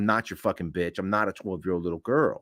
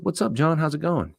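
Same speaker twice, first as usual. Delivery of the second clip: cheery greeting; 8 semitones higher than usual. Retold or imitated.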